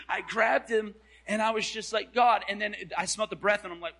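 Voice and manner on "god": mock cry to God. Acted cry while hugging.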